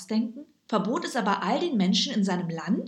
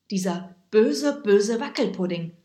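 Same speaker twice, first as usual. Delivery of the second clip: dramatic; 7 dB louder than usual. A narrator's reading. Narrator names the wicked jelly, louder and dramatic. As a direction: lean hard on the evil jelly.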